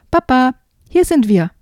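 calling out. Acted. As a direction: call across to find papa. Children call out to papa.

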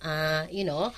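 demonstrating verbal fillers; hesitant filler demo. Shown as a demonstration. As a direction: show a speaker groping for words. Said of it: "Marami ka bang".

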